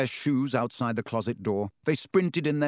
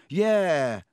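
lightly voiced smug schoolboy; a hint of boastful drawl; Malfoy voice; 5 semitones higher, 3 dB louder than usual. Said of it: "said Malfoy".

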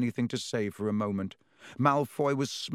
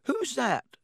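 Fred's voice; 13 semitones higher than usual. A narrator's reading. Fred asks about Colin.

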